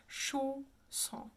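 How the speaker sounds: Chausson with sh, closed o, nasal ending; French pronunciation. Shown as a demonstration. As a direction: say Chausson softly as "shoh-SON", nasal, silent n. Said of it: "sh sound, a closed O, nasalized".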